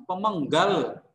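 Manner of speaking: drawn-out "pemenggal", chopped before its ending; frasering kurang sempurna. Retold or imitated. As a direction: mimic a reader stopping too early on "pemenggal". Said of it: "Vincent melakukan frasering yang kurang sempurna". (meniru jeda yang salah, "pemenggal" dipanjangkan lalu putus)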